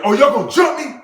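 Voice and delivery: high, loud challenge; retold heated shout; fired up. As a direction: throw it out as a dare to fight. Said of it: "I actually got more fired up".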